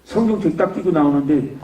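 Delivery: ordinary talk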